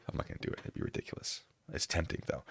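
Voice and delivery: very soft, barely voiced; hushed, as if someone is asleep; hushed aside. Real, not acted. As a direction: drop to a near whisper. Backing off yelling to wake wife.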